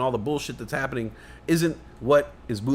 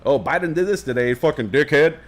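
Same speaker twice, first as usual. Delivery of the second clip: scornful jab, louder on the insult; mock insult; 6 dB louder than usual. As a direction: sneer it like a pundit who hates him. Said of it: "they're not saying".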